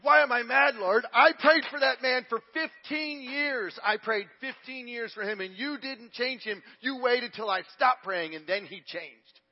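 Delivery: high, loud, drawn-out protest tailing off at the end; acted indignant complaint. Wife at the mirror arguing with God, indignant. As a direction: hammer out the grievance, stretching key words. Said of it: "Why are you mad?".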